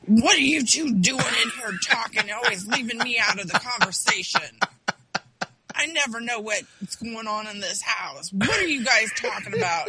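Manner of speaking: dad's mock complaint. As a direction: play the left-out dad, aggrieved. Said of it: "he's like".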